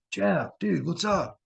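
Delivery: high, mock call to a sleeping friend; calling through a door. Locked out, calling roommate Jeff through the door, high mock call.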